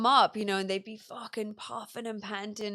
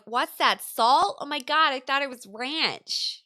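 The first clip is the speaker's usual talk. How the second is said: louder, higher mock-horrified tourist; shocked tourist; 5 semitones higher, 7 dB louder, slower than usual. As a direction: ham up the disgusted discovery. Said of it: "And they'd be like".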